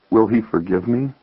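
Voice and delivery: a touch of nervousness; understated, timid question; nervous. Acted. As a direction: ask it tentatively. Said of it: "asked nervously".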